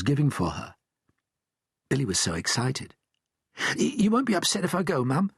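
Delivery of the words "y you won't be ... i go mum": Billy's voice. A narrator's reading. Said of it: "he said".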